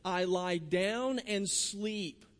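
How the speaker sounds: each word of "I lie down and sleep." stretched very slowly; very slow, calm scripture reading; slow, savoured quote. Shown as a demonstration. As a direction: linger on "I lie down and sleep." as if easing into rest. Preacher quoting David, drawn out.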